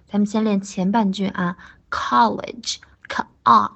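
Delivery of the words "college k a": college sounded out slowly, then "k" and "a" apart; teacher drilling the open "a" in college; broken-down pronunciation. Shown as a demonstration. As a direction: split college into its first sounds, k, a. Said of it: "ka发好".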